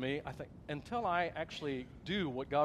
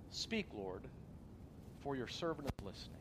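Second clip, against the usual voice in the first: hushed prayer; 2 semitones lower, 8 dB quieter than usual. Retold or imitated.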